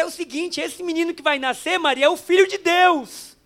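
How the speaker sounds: the angel solemnly telling Mary her son is God's; angel's announcement. Acted. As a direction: announce it like a heavenly messenger.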